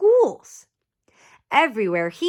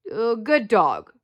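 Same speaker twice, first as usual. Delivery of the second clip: unsure praise; slower than usual. Acted. Officer unsure praising dog.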